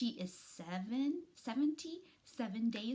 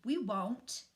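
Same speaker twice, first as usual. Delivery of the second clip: sputtered; 5 dB louder than usual. Acted. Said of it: "Ajax sputtered".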